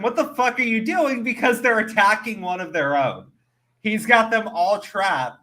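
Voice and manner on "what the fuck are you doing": high-pitched, mildly screamed outrage; half-shouted mock protest, high; retold mock scream. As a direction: imitate someone yelling in disbelief, pitched up. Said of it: "Ichigo starts screaming at them".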